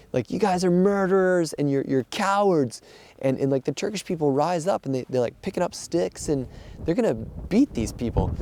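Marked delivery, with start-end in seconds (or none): 0.3-2.8 retold yelling. Grieving family yelling at the departing French rescuers, retold yell. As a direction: hurl the accusation like the grieving family did. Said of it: "they just start yelling".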